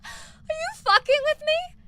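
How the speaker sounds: slow, high, cracking cry of disbelief; outraged disbelief. Retold or imitated. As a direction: stretch it out, half-crying with disbelief. Outraged at the client's request.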